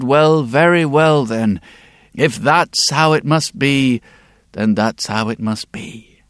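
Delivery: slow, weary giving in; resigned sigh. Acted. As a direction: sigh and accept it slowly. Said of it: "sighed and he rolled his eyes".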